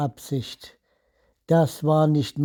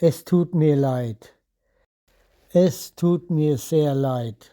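native German accent. Shown as a demonstration. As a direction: Tut mir leid said in a native German accent. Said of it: "สำเนียงของชาวเยอรมันแท้ๆ".

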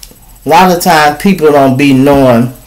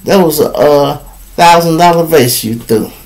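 hotel manager; 3 dB quieter than usual. Acted. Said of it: "the hotel people said".

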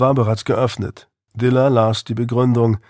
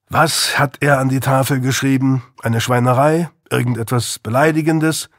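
put-on defiant teenage boy; 3 semitones higher than usual. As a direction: push back like a sulky teen. Narrator voices Louis.

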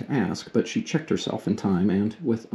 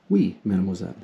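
French reply; 3 semitones lower, faster than usual. Acted. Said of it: "you said".

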